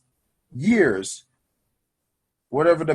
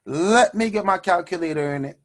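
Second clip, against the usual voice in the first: loud hold-up call; 3 semitones higher than usual. Pretend. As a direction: call out HOLD UP loud and high, then settle. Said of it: "You're gonna say".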